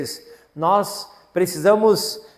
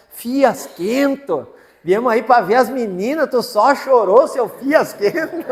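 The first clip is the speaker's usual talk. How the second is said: mock scolding; 5 semitones higher, 4 dB louder, slower than usual. Friend scolds the crying father.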